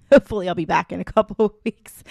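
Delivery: hoarse, fading voice; losing voice. Real, not acted. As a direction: speak through a voice that's going. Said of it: "I'm losing my voice".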